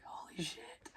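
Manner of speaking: hushed, awed whisper; a stunned whisper of disbelief; whispered holy shit. Retold or imitated. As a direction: breathe it out in shock. Awed reaction at trivia bar.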